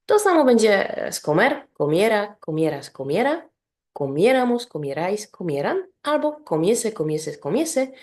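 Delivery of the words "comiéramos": comiéramos with a raised, stressed MIÉ; stressed stem vowel. Shown as a demonstration. Teacher conjugating comer for learners, comiéramos stressed on MIÉ. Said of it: "akcent będzie zawsze".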